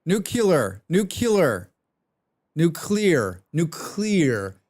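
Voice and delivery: Nuclear repeated, shifting from nuke-you-ler to nu-klee-er; repeated pronunciation drill; practicing pronunciation. Shown as a demonstration. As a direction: drill the word Nuclear until it lands. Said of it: "It's pronounced nuclear".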